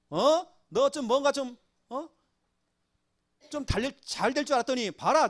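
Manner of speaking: acted taunting, mildly scornful; mocking. Enemies ridiculing David for his troubles, lightly mocking. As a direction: jeer lightly like someone looking down on a loser. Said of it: "나를 조롱하는 겁니다".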